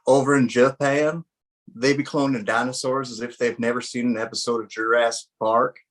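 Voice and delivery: lightly put-on Southern accent. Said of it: "I really liked your Southern accent there you just, uh, put on".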